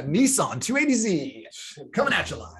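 laughing while hamming up a DJ intro; radio voice, laughing. Pretend. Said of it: "I'm gonna get my radio voice".

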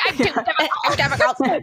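light mock-tearful line reading; a touch of Sally's tearful whine; Sally Albright impression. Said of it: "such a good line delivery".

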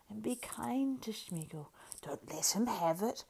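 slow wheedling whisper; whispered Gollum plea. A narrator's reading. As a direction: whisper it, pleading.

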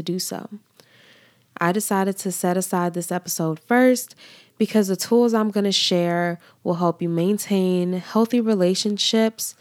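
congested, blocked-nose voice; stuffy nose. Real, not acted. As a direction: speak through a stuffy nose. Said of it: "excuse my congested voice and trouble breathing".

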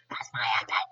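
jokey deep-voiced restatement; playful low voice. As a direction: drop way down for a mock-deep repeat. Repeats sign-off in low voice.

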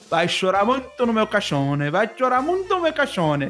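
mock Italian great-grandma nagging; light Italian accent, teasing; Italian nonna accent. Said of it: "Ela era italiana". (sotaque italiano de bisavó, de brincadeira)

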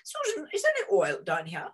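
quick, lightly imitated proper English accent; a hint of a proper English gent's accent, brisk; Sir Ian Rankin's proper accent. British holidaymaker phoning to ask about oil, light proper English accent. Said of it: "in a very proper accent".

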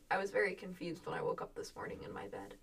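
hushed, fast whispered aside. Real, not acted. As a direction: whisper it almost to yourself. Unvoiced trailing aside.

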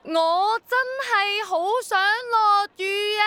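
帶哭腔、拉長、高聲大嗌; 用盡全力，近乎哭住叫; 哭腔大嗌. Acted. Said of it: "再試多次". (再試一次，激動到帶哭聲咁嗌)

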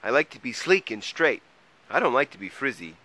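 lightly voiced troll grumbling about frizz; complaining troll. A narrator's reading. Troll explains his hair to Mole, complaining.

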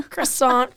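"Croissant" as kruh-SAHN, r sounded; Americanized "Croissant" with clear r; anglicized croissant. Shown as a demonstration. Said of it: "however you wanna say it".

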